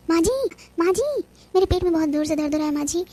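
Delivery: calling out in pain. Acted. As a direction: call out to her mother-in-law through the pain. Daughter-in-law in labour calls out.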